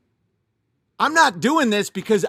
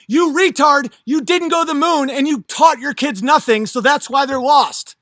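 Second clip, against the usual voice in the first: louder, higher telling-off; angry retort; 4 semitones higher, 4 dB louder than usual. Retold or imitated. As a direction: chew out the boomer, heated. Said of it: "I'm like".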